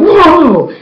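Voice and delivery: high, drawn-out gasp of awe; a retold gasp of wonder; amazed whoa. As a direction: let your jaw drop on it, high. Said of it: "And I was like".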